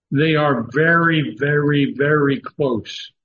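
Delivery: each "very" leaned on, the last one slowed; three weighty falling "very"s; stress on very. Real, not acted. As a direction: lean hard on every "very" and stretch "very close". Emphatic repeated very.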